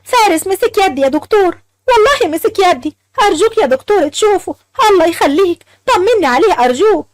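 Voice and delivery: high, eager begging; pleading excitedly. Acted. Wife begs the doctor.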